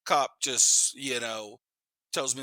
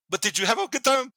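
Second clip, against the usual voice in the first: cheeky; 10 semitones higher than usual. Retold or imitated. Cheeky teen question to cop.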